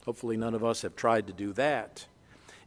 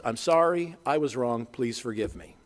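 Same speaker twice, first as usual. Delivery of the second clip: sincere apology; 2 semitones lower than usual. Shown as a demonstration. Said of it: "A biblical apology has three parts".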